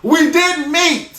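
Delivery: slow, pointed "We didn't meet."; slow emphatic sound bite; sound bite delivery. Shown as a demonstration. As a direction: spell out "We didn't meet." slowly, word by word. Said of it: "let that be the sound bite".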